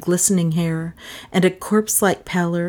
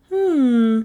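long, higher-pitched musing hum; pondering hum, held level; thoughtful; 7 semitones higher than usual. A narrator's reading. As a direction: hum it as you think it over. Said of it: "said Melissa thoughtfully".

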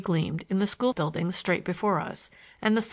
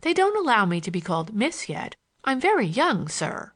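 lightly voiced schoolgirl, lilting; a hint of a candid young girl; 4 semitones higher than usual. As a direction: introduce yourself with a light girlish lilt.

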